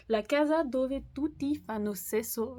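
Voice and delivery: French-accented attempt at Italian; bad Italian accent. Real, not acted. Vlogger reading out an Italian title, apologetically bad Italian accent. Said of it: "mon accent italien est pire".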